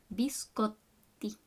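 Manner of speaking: "Biscotti" whispered slowly. Shown as a demonstration. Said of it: "make that pause on the double T".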